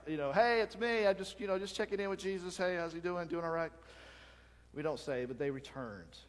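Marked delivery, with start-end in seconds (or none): 0.3-3.7 eager visitor. Retold or imitated. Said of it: "I'd be going there like".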